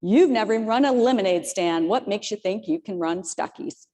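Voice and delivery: lightly voiced Southern father, gently teasing; imitating Southern accent. Daughter quoting her father's doubting words in a mild Southern accent. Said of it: "who has this great Southern accent".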